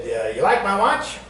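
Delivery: lightly voiced friend; Glenn voiced. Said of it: "And he said".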